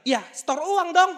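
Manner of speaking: high, loud, drawn-out demand; mock yelled order, stretched out; retold yell. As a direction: imitate a pushy drunk demanding loudly. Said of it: "dia teriak".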